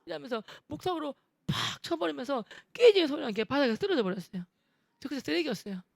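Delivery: normal talking voice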